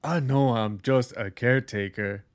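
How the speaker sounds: lightly voiced humble caretaker; earnest, simple caretaker voice. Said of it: "he plays the simple caretaker".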